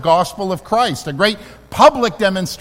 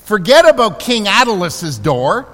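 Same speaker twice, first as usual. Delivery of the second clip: voicing Jesus; 3 semitones higher, 4 dB louder than usual. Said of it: "Jesus to really say".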